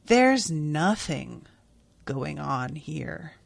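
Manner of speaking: a touch of held-back tears, slowed right down; teary, slow and quiet. Retold or imitated. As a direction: let it drop softly as the tears come. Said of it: "her eyes fill with tears".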